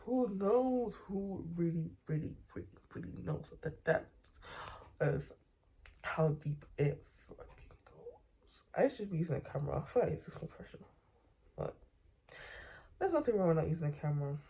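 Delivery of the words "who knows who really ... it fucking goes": spooky hushed musing. Pretend. Spooky conspiracy musing, building to whisper.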